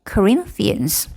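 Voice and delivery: Corinthians, slow, with RIN standing out; stressed second syllable. Shown as a demonstration. Teacher showing the stressed sound gets bigger, stress on RIN in Corinthians. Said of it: "소리가 커지고".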